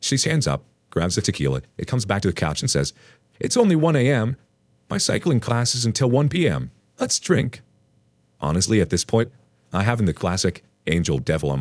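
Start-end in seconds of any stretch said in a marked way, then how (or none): 3.4-7.6 high-pitched, eager party-mom voice; tipsy mom. A narrator's reading. Ex's mom back with the tequila, high and eager. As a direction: pitch it up and urge him on. Drunk mom urging him to drink.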